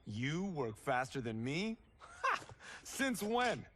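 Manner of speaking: mock outrage, bursting into a laugh; laughing taunt. Teasing friend over a bet.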